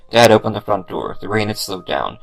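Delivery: ordinary delivery, nothing marked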